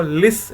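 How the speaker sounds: लिस said as one strong, stressed syllable; stress on first syllable. Shown as a demonstration. Teacher isolating the stressed syllable for students, firm stress. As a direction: hit लिस firmly, as the stressed start of listen. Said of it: "देखिए लिस पर आपके पास stress बढ़ रहा है".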